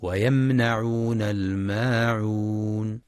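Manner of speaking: ويمنعون with the nun short and open, no stretch. Shown as a demonstration. Teacher giving the correct reading, short nun. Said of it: "والصواب فتح النون فقط دون مد".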